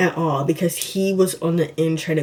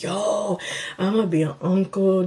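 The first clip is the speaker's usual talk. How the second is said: mildly excited imitation of his brother. Brother hearing he'll be an uncle, excited. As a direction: draw out the "Yo" with restrained excitement. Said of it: "just excited".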